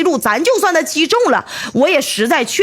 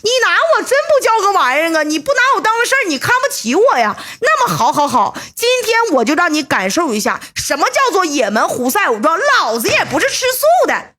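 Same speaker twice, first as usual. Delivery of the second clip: higher, fast, worked-up threat; mock furious rant; 6 semitones higher than usual. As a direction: rant like an insulted tough guy. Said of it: "说：". (被轻视后提高嗓门怒吼威胁)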